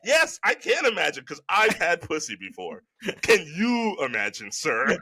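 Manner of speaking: indignant comeback in own voice; exasperated, challenging retort; worked up. Real, not acted. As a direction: fire the question back with pointed mock politeness. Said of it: "got a little worked up there".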